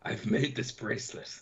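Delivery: slow, creepy villain offer. Acted. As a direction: drawl out the creepy gift.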